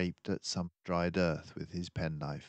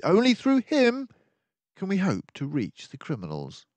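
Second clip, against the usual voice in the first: higher, brisk detective voice, urgent; a sharp-minded sleuth laying out the danger; keen detective warning of the villains; mouse detective; 10 semitones higher, 6 dB louder than usual. Acted. Detective explains the lead.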